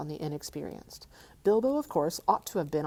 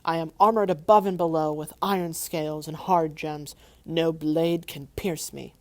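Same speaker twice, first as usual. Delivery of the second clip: boasting dragon; 7 dB louder than usual. Acted.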